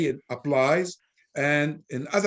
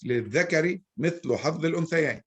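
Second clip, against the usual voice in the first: quoting the verse; much faster than usual. Shown as a demonstration. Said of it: "but it says".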